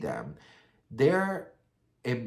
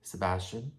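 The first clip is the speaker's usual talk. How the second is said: imitating him, softer and slightly lower; hushed, controlled retelling of his plea; calm; 3 semitones lower, 5 dB quieter than usual. Vlogger quoting the man telling Sebastian what he needs, calmly. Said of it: "he just says really calmly".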